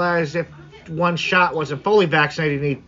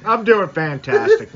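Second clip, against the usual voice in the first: higher, louder, slow exaggerated cheer; hammed-up fantastic; 8 semitones higher, 4 dB louder, slower than usual. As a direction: oversell how great you feel. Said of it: "creepy as hell".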